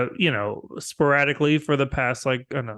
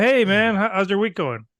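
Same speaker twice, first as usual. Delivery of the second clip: mock cheery greeting; 8 semitones higher, 5 dB louder than usual. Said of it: "I'm like".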